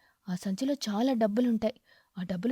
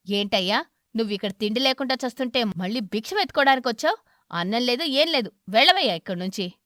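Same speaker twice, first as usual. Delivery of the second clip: louder, rude chasing-off; shouting; 5 dB louder than usual. Acted. Crow shouting the beggar away from the door. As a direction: yell at him to get lost. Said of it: "అలా అరుస్తున్నావ్".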